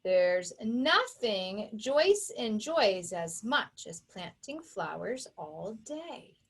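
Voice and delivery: put-on slow, measured poem reading for children. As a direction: read it slowly like a rhyme for kids. Reads a poem aloud.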